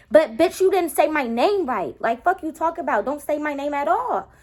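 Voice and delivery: bitch, say my name right; irritated outburst. Real, not acted. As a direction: let the annoyance spill over. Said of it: "I'm irked".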